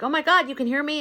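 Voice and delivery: excited scientist. Retold or imitated. Scientist finally answered by an elephant, excited. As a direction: gush in astonishment at being heard. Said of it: "he's so excited".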